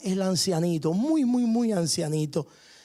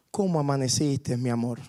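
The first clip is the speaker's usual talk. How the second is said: tender; 5 semitones lower than usual. Retold or imitated. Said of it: "Con cariño, con amor le pregunta".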